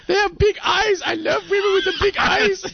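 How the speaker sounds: very high, hammed-up fake Asian accent; caricatured Asian accent in falsetto; bad Asian accent. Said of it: "just a really bad Asian accent".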